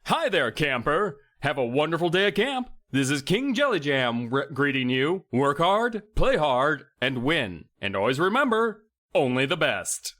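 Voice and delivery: recorded King Jelly Jam message in a hammy announcer voice; camp recorded message. Acted. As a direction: sell it like a mascot's phone greeting. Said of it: "It's a message".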